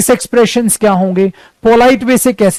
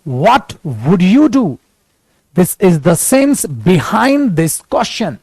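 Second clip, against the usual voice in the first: very slow, each word spaced out; slow clear English; 2 semitones higher, much slower than usual. Shown as a demonstration. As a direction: say it slowly so every learner hears. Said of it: "इसी बातों को मैंने English में बोला, ध्यान से सुनिए". (धीमी, साफ़ अंग्रेज़ी)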